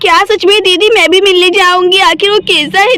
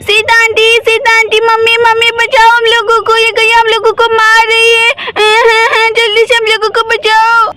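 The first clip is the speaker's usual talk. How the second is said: mild mock child's cry for help, a little higher; shouting for help; 4 semitones higher than usual. Children shouting for aunt Sita to save them from the cow, mild mock yell. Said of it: "तभी सोना स्वीटी जोर जोर से चिल्लाने लगती है".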